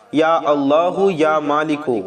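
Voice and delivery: slow, drawn-out invocation of God's names; slow prayerful invocation; dhikr recitation. Shown as a demonstration. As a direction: chant the names slowly and devoutly. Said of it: "یہ ہو گیا چار بار".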